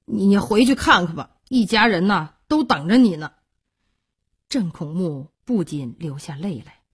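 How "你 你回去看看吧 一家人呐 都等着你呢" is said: hesitant, fumbling urging; a mildly awkward, noncommittal reply; evasive and vague. Acted. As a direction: stumble at the start, dodging the question. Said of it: "含糊地说".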